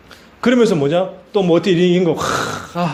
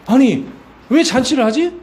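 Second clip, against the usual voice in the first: puzzled surprise; 6 semitones higher than usual. Acted. Elder son finds an unexplained feast, puzzled surprise. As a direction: ask it high, thrown by what you find.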